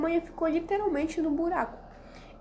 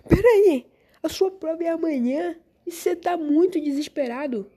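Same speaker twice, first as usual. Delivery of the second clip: theme park princess; 5 dB louder than usual. Acted. Exaggerated sweet host greets student.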